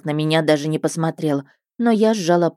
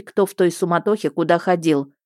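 usual speaking voice

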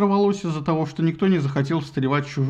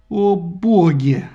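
very slow, louder; dismayed exclamation; 4 dB louder, much slower than usual. A narrator's reading. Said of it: "воскликнул Ахилл".

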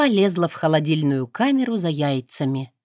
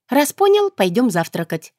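bright, high, smiling peacemaker; smooth it over with a smile; conciliatory; 6 semitones higher, 4 dB louder than usual. A narrator's reading. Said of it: "примирительно улыбнулась я". (примирительно, с улыбкой)

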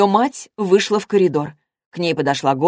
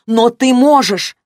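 ободряюще; 6 semitones higher, 6 dB louder, slower than usual. A narrator's reading. Подруга ободряет Лану.

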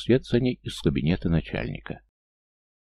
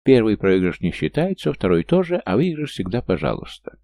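loud carnival barker; 4 semitones higher, 4 dB louder than usual. Acted. Swindler calling crowd.

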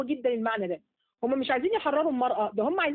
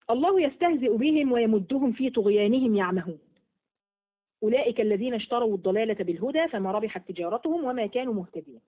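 Quran recitation. Acted.

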